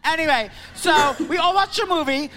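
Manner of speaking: put-on drunk, laughing shout; screaming. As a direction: scream it over the crowd. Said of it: "Why am I screaming?".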